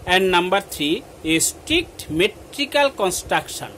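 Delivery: measured classroom read-out; dictation reading. Acted. Teacher listing sonnet features to pupils, measured dictation. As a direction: read it out point by point for note-takers.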